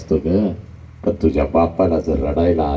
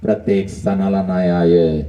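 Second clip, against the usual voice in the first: son's tearful vow; slower than usual. Acted. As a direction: swear it through tears. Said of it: "आईला म्हणतं".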